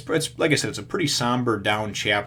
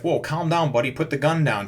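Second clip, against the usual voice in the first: mock alarmed plea; 5 semitones higher, 3 dB louder than usual. Rick talking Shane down.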